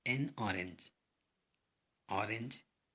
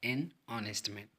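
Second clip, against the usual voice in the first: each word said slowly for learners; slow clear demo; much slower than usual. Shown as a demonstration. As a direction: spell it out slowly like a teacher. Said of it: "यहाँ पर देखिए पांचवा". (धीरे और साफ़ उच्चारण)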